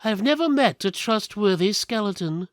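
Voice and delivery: a warning with a knife drawn; thief's voice. Acted. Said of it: "Kavine the thief said".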